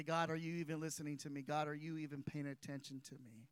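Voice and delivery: low, hushed, hurried plea to God; quiet doubting prayer. Acted. Believer asking God if he listens, hushed and quick. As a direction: murmur it fast, soft and low, like private doubt.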